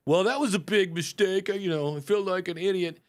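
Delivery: half-hearted moan about the flop; mock self-pity. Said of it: "You don't have to go".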